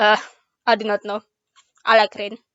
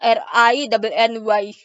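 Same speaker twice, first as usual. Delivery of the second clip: spelled out slowly. Shown as a demonstration. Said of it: "do you want it spelled".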